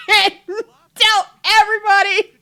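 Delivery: high, loud hammed-up threat; going off. Husband threatening to tell everybody, loud mock ranting. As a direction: stretch out the indignant threat loudly. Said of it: "he's just going off".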